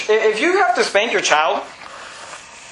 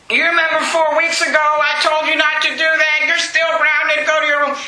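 higher-pitched nagging parent, lightly acted; mock scolding parent; 4 semitones higher than usual. Preacher mocks parent grounding a child for weeks, mock scolding. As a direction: imitate a parent dragging out an old grudge.

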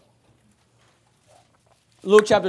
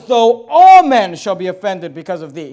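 louder and slow, each word driven; loud slow vow; 2 semitones lower, 9 dB louder than usual. Acted. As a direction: declare it slowly to Jesus. Peter's vow repeated.

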